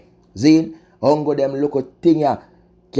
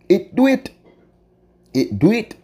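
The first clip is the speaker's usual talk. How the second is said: emphatic exclamation; 9 semitones higher than usual. Real, not acted. Vlogger to viewers, sudden high outburst. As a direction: burst out with the conclusion.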